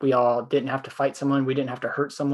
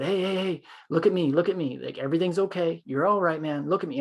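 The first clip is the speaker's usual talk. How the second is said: higher, soothing retold reassurance; calming him down; 5 semitones higher than usual. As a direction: talk an angry man down gently. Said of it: "And I just started talking him down".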